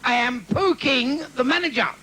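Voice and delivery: high, slow mock Chinese accent. Comic voicing the Chinese restaurant manager on the phone, mock Chinese accent. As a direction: ham up a Chinese accent, drawn out.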